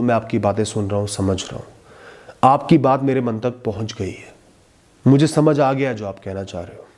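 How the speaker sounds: calm an angry person with respect; lovingly and respectfully. Shown as a demonstration. Speaking to someone angry, gentle and respectful. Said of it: "प्यार से, इज्जत से ये बात कह दो".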